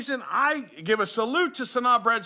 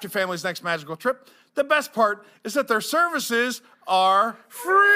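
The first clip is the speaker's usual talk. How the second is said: ad read; 2 semitones higher than usual. Acted. Reading the sponsor ad.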